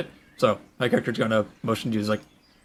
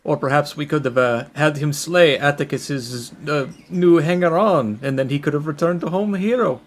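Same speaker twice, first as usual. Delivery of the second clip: higher, jovial in-character musing; 5 semitones higher, 4 dB louder than usual. Acted. Player's character suggesting a hero's return, jovial. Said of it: "like, entering a jovial tone".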